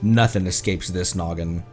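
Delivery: usual speaking voice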